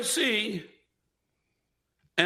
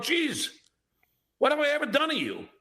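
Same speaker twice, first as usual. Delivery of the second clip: whiny quoted tweet; 5 semitones higher than usual. Retold or imitated. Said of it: "So I wrote".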